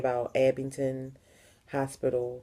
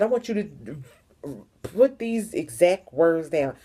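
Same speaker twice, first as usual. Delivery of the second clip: retold angry message; slower than usual. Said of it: "I said".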